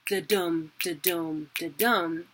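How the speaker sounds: da-dum, da-dum with stress on dum; heartbeat rhythm. Shown as a demonstration. Teacher contrasting the pattern it lacks, rhythmic. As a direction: tap da-dum evenly. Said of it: "doesn't do the".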